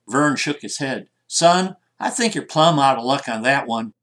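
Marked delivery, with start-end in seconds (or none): 1.3-3.9 bad Southern drawl. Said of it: "sorry for the bad accent".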